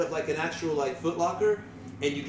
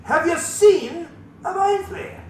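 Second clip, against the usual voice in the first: louder, higher, slow shout back down; yelling back; 10 semitones higher, 6 dB louder, slower than usual. Acted. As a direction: bellow the question down, slowly. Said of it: "why the hell are we yelling".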